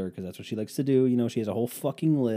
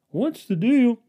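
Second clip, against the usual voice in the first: mock outrage; 11 semitones higher, 7 dB louder, slower than usual. Mock exaggerated question.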